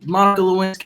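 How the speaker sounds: a hint of a presidential impression; Bill Clinton. Shown as a demonstration. Running through easy presidents to imitate, light impression. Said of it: "You can do Bill Clinton".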